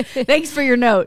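slow, mock gracious thanks; airy fake politeness while binning it; mock polite brush-off. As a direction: toss the note away sweetly. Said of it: "I went like this with my invisible piece of paper".

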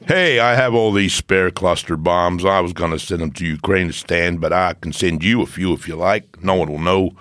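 low mock American president; doddery elderly politician impression; Joe Biden. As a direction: put on an old statesman's low American voice. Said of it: "Joe Biden".

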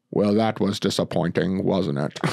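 lightly voiced, deadpan TV host; bad Alfred Hitchcock. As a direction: do a hint of a bad celebrity impersonation. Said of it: "bad impersonations are part of it".

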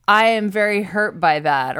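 flat robotic monotone imitation. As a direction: say it like a stiff robot. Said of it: "he sounded like a robot".

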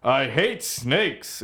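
slow, drawn-out hero growl of a line; gruff Indiana Jones. Pretend. Copying the snake line in a slow movie-hero voice. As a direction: drag the words out like a tired adventurer. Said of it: "Is that how he talks?".

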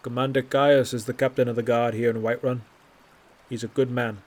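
a touch of polished official tact; smooth, guarded official answer; diplomatic voice. Acted. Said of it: "in the same diplomatic voice".

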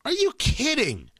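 slow incredulous. Retold or imitated. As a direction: let the disbelief sink in slowly. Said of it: "I'm like".

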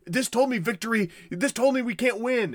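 a hint of a despairing ruler; mock despair. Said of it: "'Cause he's like".

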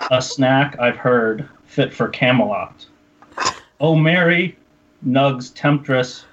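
slow, grand poetry reading; mock solemn poem. Shown as a demonstration. Host reads his silly poem to cohosts, slow and mock-solemn. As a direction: recite it as if it were deeply moving. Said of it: "take two".

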